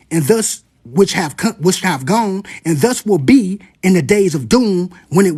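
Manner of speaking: slow, weighty reading of the prophecy; dramatic scripture reading; solemn reading. Acted. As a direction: let each image land slowly. Reads from the prophecy.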